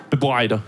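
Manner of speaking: Bebreide barked like a shout from a passing car; shouted Danish word. Shown as a demonstration. Comic mimics a Danish stranger yelling Bebreide from a car. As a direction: fling Bebreide at them like a driver-by. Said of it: "sounds like somebody shouting it at you from a car".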